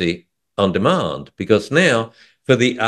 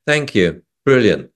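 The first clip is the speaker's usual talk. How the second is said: sarcastic. Retold or imitated. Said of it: "you know, sarcastically".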